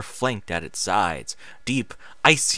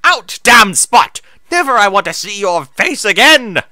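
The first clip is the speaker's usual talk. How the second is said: dramatic scream; 10 semitones higher, 11 dB louder than usual. Acted. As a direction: rage at her like a curse. Moon Shadow keeps screaming.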